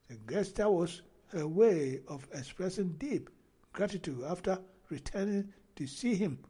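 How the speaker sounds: deliberate, phrase-by-phrase report reading; news read-aloud. Acted. Vlogger reading the graduation report to viewers, deliberate news read-aloud. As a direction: read the story out in measured chunks.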